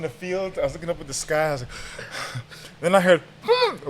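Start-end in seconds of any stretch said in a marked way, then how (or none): 3.4-3.9 short hummed whistle blast; imitated whistle. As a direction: mimic the referee's whistle. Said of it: "a whistle blows".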